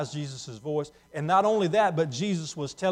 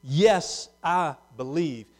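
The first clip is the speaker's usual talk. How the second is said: much higher and louder, slow and overjoyed; overwhelmed with joy at finally seeing; joyful awe; 3 semitones higher, 9 dB louder than usual. Acted. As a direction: cry out like a man seeing his maker for the first time. Healed man rejoices at seeing Jesus.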